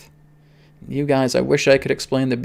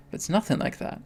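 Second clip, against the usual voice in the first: breathy whisper, with a lift on nothing; 5 semitones higher, 10 dB quieter than usual. Real, not acted. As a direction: hush it like a secret. Repeating the reassurance, first hushed.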